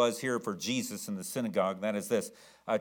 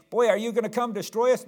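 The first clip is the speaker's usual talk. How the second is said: mock demon; 8 semitones higher, 5 dB louder, faster than usual. Demon voiced in sermon retelling.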